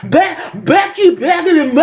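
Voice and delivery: high, stuttering, over-eager yapping; cringey puppy-like squeal of a name; sidekick puppy impression. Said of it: "a sidekick puppy. That's how she acts".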